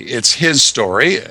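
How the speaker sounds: "his" picked out before "story"; stress on HIS. Real, not acted. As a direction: split it clearly as HIS story. Wordplay on his story and history.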